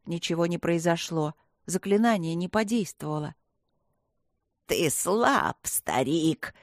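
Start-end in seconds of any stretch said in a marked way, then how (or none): 4.7-6.5 насмешливо, голосом зла; бросить презрительно; с ухмылкой. Acted. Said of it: "с ухмылкой ответило зло". (зло насмехается над стариком)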